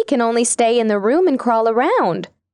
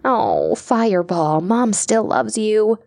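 tender; 3 semitones lower, slower than usual. Acted. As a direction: reassure the hurt child slowly. Mother comforting gently.

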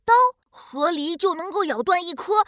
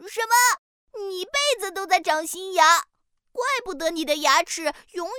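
surprised; 4 semitones higher than usual. Acted. Duck surprised.

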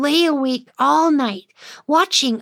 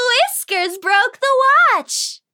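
pixie shouting; 11 semitones higher than usual. Acted. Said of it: "flew around the room shouting".

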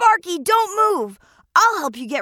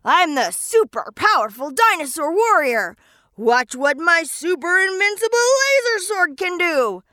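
heroic shout. Acted. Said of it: "shouted at the snot bubble".

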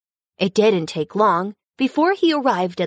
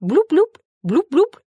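high, louder playful bloop bloop; bubbling bloops; 8 semitones higher, 3 dB louder than usual. Acted. Narrator reading to children, playful high water-bubble bloops. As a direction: pop each bloop like a bubble.

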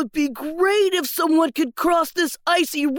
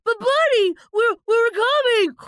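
higher, hurried stammer; breathless stammer; 4 semitones higher than usual. Acted. Little Pig running to rescue Bunny, flustered. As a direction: stumble over words while rushing.

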